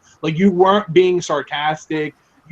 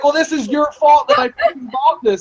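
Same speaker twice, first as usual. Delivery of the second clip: mock accusing friend; 7 semitones higher than usual. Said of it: "And you're like".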